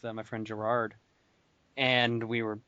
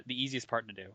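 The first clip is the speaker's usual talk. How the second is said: normal talking voice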